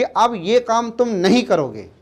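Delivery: slow and firm with weight on नहीं करोगे; teacher showing a firm prohibition to a child; emphatic refusal. Shown as a demonstration. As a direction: lay down the rule with emphasis. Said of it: "हम उस पर जोर देकर बोल रहे हैं".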